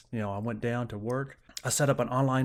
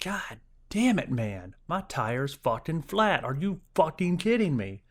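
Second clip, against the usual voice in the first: retold frustration; 5 semitones higher, slower than usual. Retold rage at flat tire.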